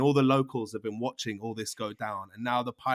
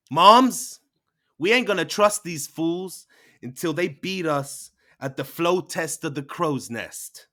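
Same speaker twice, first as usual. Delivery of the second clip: much higher, loud call then slower; 4 semitones higher, 7 dB louder than usual. Acted. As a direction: lay down the challenge to the rivals. Twin calls to mother, challenge.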